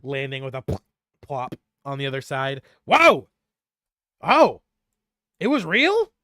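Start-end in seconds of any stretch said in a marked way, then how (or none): 2.9-6.1 high, loud, giddy relief; thrilled little gnome shouting; excited disbelief. Acted. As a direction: squeal with vindicated joy. NPC overjoyed the monster was real.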